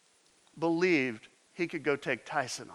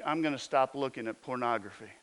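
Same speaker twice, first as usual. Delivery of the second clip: each vow firmer than the last; building resolutions; 2 semitones higher than usual. Retold or imitated. Voicing listeners' resolutions.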